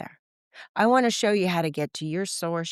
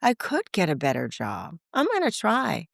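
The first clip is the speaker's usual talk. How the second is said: excited self-talk; 9 semitones higher than usual. Retold or imitated. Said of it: "I go".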